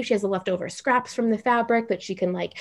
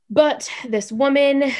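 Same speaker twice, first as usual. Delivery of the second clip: whisper; 6 semitones higher, 4 dB louder, slower than usual. Real, not acted. Conspiratorial aside about seamstress.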